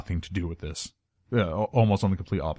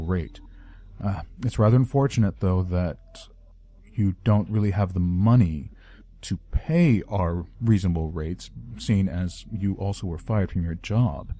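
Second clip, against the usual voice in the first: polite corporate villain. Shown as a demonstration. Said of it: "Or are we talking more along the lines of".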